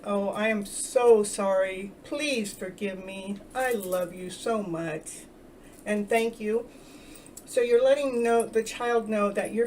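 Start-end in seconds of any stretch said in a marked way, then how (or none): 0.1-1.9 tender apology. Shown as a demonstration. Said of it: "saying, like, to the inner child". 2.0-3.4 put-on soft slow plea to the inner child. Shown as a demonstration. Speaking tenderly to your inner child, soft and slow. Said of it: "to the inner child". 3.6-6.7 tender reassurance. Shown as a demonstration. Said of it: "to the inner child".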